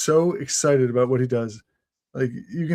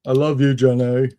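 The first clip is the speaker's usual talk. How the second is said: Forrest Gump. Acted. Friend tries out the famous love line, lightly like Forrest. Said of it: "you said it like Forrest".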